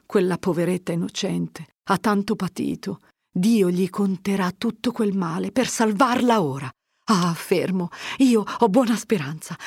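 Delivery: a lightly voiced mother taking heart; Agnese hopeful. Agnese tells Fermo she has good hope for Lucia, comforted.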